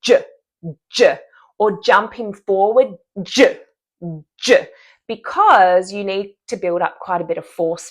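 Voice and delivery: j pushed forward with force; jumping j. Shown as a demonstration. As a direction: build up force and jump the j forward. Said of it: "I like to move this".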